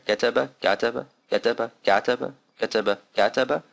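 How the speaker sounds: getaba and gataba said quickly, alif barely heard; quick unexaggerated contrast; quick pair. Shown as a demonstration. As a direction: run getaba gataba together fast. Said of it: "very quickly, like I just did there".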